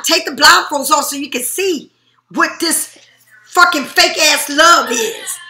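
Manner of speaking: shouting, then slowing into a near cry; rising anger that cracks at the end; angry outburst. Real, not acted. Reader rants at fake love.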